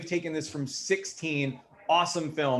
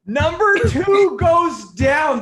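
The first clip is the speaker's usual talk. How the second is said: shouted over laughter, pitched way up; big announcement; 12 semitones higher, 10 dB louder, slower than usual. Real, not acted. Host booming the bracket result to the chat: loud announcing shout. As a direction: call the knockout out loud like a ring announcer.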